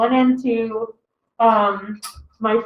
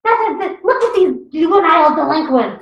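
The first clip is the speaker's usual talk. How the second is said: disapproving mom; 6 semitones higher than usual. Retold or imitated. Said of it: "She's like".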